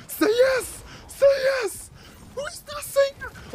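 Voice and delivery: high, loud insisting; shouted demand. Retold or imitated. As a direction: yell at them to agree. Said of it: "Who's saying".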